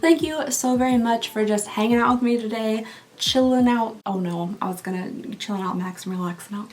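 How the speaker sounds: tongue-tied sign-off; stumbling over the words; flubbed line. Real, not acted. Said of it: "No, no, redo".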